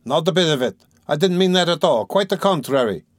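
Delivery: high-pitched, upset protest; distressed exclamation. A narrator's reading. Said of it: "shouted Razumihin, distressed".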